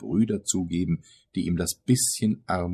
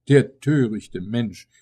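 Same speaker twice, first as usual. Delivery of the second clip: slow, raised, pitying cry; pitying exclamation; 4 semitones higher, 6 dB louder, slower than usual. A narrator's reading. Mother about her deluded son, pitying exclamation. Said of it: "rief sie mit mitleidigem Lächeln".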